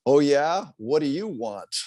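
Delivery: gruff, annoyed bark at a caller; barking at him. Retold or imitated. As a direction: snap at him like a nuisance caller. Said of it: "You were barking at him".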